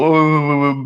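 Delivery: lightly imitated wail; a half-hearted mock boo-hoo; mock crying. Dismissing complaints about abortion jokes, mock crying. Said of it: "I don't wanna hear no crying".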